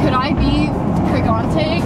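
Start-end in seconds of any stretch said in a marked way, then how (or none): 1.1-1.8 pregante said as pre-GAN-tay; mispronounced pregnant. Retold or imitated. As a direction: say pregante like a wrong spelling of pregnant. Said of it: "people asking".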